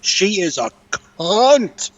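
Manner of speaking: slow, venting emphasis on CUNT; emphatic insult. Real, not acted. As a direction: draw CUNT right out with contempt. Venting about woman he hates.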